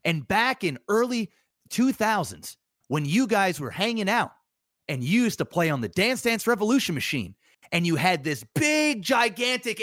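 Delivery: a hint of an excited host piling on the details; Nardwuar's way of talking. Host recalling a guest's past to the streamer, lightly imitated eager voice. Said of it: "And that's how he talks".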